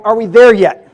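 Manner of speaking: lightly mimicked whiny kid with a laugh; impatient four-year-old. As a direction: ask it like a bored child in the back seat. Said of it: "on a road trip with a four-year-old".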